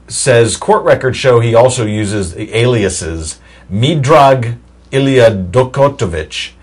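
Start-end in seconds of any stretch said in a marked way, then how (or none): 3.7-6.5 light Russian accent, drawn out slowly. Shown as a demonstration. Host reading out a suspect's aliases, in a Russian accent. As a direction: give the foreign names a slow Russian flavour. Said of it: "Not a bad Russian accent you're using there".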